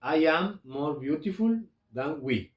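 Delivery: slow, clear English example; slow model sentence. Shown as a demonstration. Teacher gives another English example, slow and careful. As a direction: read it carefully and slowly. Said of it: "puedo decir".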